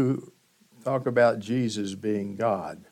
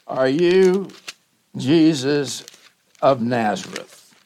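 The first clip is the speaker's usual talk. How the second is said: demanding soldier; 5 dB louder, slower than usual. Acted. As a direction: call it out like an arresting soldier. Soldiers demanding Jesus' identity.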